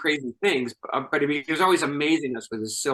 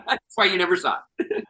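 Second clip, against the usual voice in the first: laughing; 5 semitones higher than usual. Real, not acted. Teasing reveal of cut scene.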